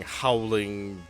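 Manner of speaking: usual speaking voice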